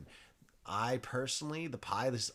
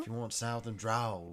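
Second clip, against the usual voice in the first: southern drawl. Acted. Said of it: "I can't even understand what you're saying".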